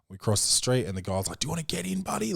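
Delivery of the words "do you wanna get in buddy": high, sing-song friendly offer; a bright, kind invitation to a kid; friendly worker. Retold or imitated. Dad imitating digger worker inviting toddler up. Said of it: "friendliest dude ever".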